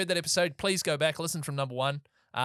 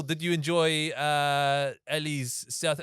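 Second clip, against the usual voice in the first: put-on South African accent slipping toward French; a wobbly South African accent, half French; much slower than usual. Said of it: "am I doing a South African accent?".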